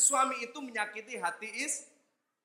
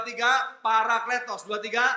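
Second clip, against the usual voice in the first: "parakletos" called out louder; 5 dB louder than usual. Shown as a demonstration. Preacher urging the church to repeat it louder. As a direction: lead the congregation, louder now. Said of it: "Lebih keras lagi".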